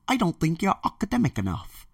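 lightly mock the snob who rejected him; mocking the person who doubted him; dismissive critic. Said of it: "this foolish person saying that".

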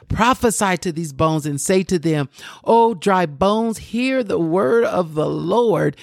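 slow, drawn-out proclamation of the verse; preached scripture. Acted. Preacher voicing the command to dry bones, slow proclamation. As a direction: proclaim it, stretching out each key word.

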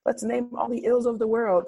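lightly put-on crowd-riling preacher; mock rabble-rousing preacher. Preacher playing to the congregation, mock rousing. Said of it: "or what will rile them up".

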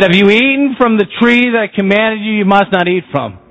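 a hint of God's stern question; lightly voiced God face to face; God confronting. God confronts Adam, lightly voiced. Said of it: "He said".

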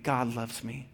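gentle bedtime affirmation. Retold or imitated. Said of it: "end with saying".

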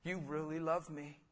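soft thankful prayer; hushed prayer of thanks at communion; quiet prayer. Shown as a demonstration. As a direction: whisper thanks over the bread. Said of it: "hold up the bread and say".

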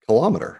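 kilometer stressed on "lom", kil-LOM-eter; Canadian kilometer. Shown as a demonstration. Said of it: "It's just as I just said it".

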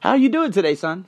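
approaching father. Acted. Father greeting his withdrawn son, lightly acted friendliness. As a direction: lightly play a dad reaching out. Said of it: "every time his father approaches him".

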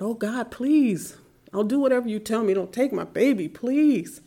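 retold urgent plea, rising on "please"; pleading. Mother begging God to spare her son, pleading.

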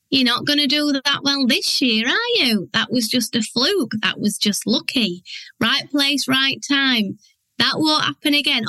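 a hint of a whining inner critic; whiny inner voice. Mimicking the doubting voice in her head, lightly whiny. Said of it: "a whiny voice".

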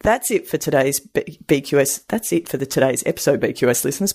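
speaking with teeth out; without dentures. Real, not acted. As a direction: dentures out, slightly slurred words. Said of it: "Pop my teeth back in".

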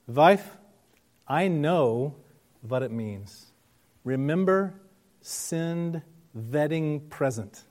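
put-on light Eastern European accent, v for w; husband asking, lightly Eastern European accent. Immigrant husband asks his wife, light Eastern European accent. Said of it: "in his thick Eastern European accent".

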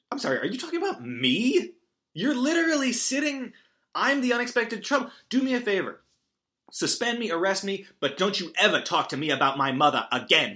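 mock-furious, hammed-up teen defiance; indignant outburst. Ren snapping back at the principal over his mother, mock outrage.

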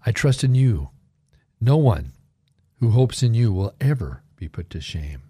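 slow, deliberate scripture reading; measured, reverent recitation. Shown as a demonstration. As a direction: read the Psalm slowly with pauses between phrases. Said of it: "I'll read it slowly".

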